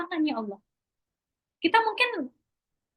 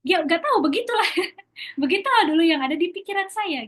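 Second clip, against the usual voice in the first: higher-pitched words ending in a laugh; amused laughing; 5 semitones higher, faster than usual. Real, not acted. Speaker admitting their old reasoning didn't connect, laughing. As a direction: shrug it off, higher, breaking into a laugh.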